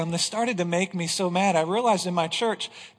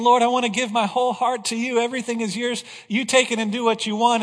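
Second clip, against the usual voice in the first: higher and louder, earnest surrender; fervent prayer; 5 semitones higher, 5 dB louder, faster than usual. Retold or imitated. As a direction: imitate the worshipper pouring out devotion. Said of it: "They're saying".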